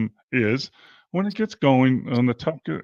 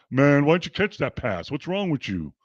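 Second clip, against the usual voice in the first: nagging teammate. Retold or imitated. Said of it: "It's two different things".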